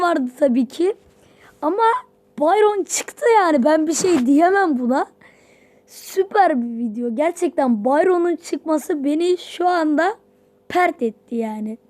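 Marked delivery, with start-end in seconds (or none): 2.4-11.8 ecstatic. Real, not acted. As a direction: shout with joy that Byron dropped. Byron unlocked.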